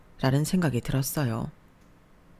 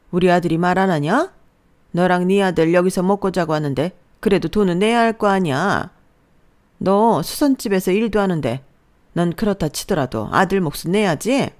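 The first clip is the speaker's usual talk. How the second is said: a louder, bossy mother-in-law lecturing her daughter-in-law; mother-in-law putting the new bride in her place, a touch louder; scolding mother-in-law; 3 semitones higher, 6 dB louder than usual. Acted. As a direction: lay down the law like a domineering mother-in-law. Mother-in-law demands money.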